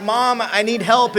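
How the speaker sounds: begging mom for help, drawn out; pleading son. Retold or imitated. Son calling mom for rescue, loud slow pleading.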